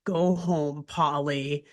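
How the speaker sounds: low, steady and gentle; calm. Retold or imitated. Big Henry sends Polly home, calm and low. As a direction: tell her calmly. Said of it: "Big Henry calmly says".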